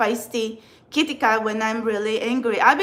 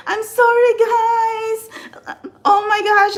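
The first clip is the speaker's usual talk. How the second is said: much higher and louder, a flustered apologetic gush; her old awkward on-camera self; 10 semitones higher, 6 dB louder than usual. Retold or imitated. Tarot reader imitating her nervous early livestream apologies, high flustered gush. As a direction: mimic a nervous beginner apologising to viewers. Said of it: "The intonation was bad".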